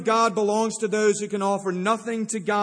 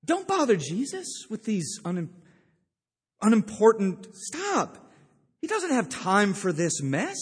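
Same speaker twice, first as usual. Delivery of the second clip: mildly acted scolding, firmer as it goes; rebuking disciples. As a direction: shoo people away, protective of the teacher. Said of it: "the disciples rebuke them".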